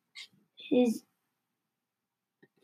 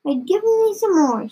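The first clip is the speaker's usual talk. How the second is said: higher-pitched demanding grandma; mild cry; 6 semitones higher than usual. A narrator's reading. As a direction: call out for more, pitched up. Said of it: "And she cried".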